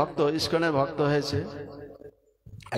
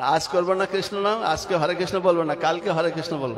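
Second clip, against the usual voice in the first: defiant refusal. Retold or imitated. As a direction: stubbornly push the refusal out. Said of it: "বলে".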